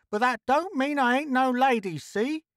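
high, aggrieved character voice; high-pitched huffy protest; indignant Trixie. A narrator's reading. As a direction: insist in a very high voice. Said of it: "Trixie continued".

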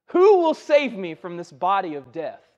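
loud opening, falling away; impassioned scripture quote. Retold or imitated. Preacher voicing Paul's plea for rescue, impassioned. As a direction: cry out the question, then sink. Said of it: "Paul says".

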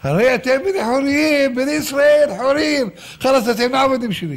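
high, full-throated proclamation; very high-pitched, sustained declaring yell; booming so all hear. Retold or imitated. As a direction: shout it out to a whole nation. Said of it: "רב קול בגרון שלו".

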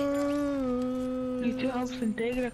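drawn-out, slow and deliberate; slow repeat. Shown as a demonstration. Repeating it slowly to a teammate who didn't catch it. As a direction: repeat it slowly, stretching each word. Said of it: "What did you just say?".

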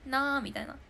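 a nasal, ringing "なー" in imitation of a singer; a singer's nasal voice. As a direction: hum "なー" through the nose like a singer's singing. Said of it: "ちょっとも-、モノマネ". (歌手の鼻にかかった「なー」の物真似)

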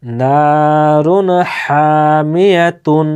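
Quran recitation. Shown as a demonstration. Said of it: "দুইটা শব্দকে এক জায়গায় মিলাতে হবে".

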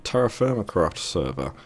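hoarse, strained voice from a sore throat; talking through a sore throat. Real, not acted. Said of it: "I've got a sore throat from a virus".

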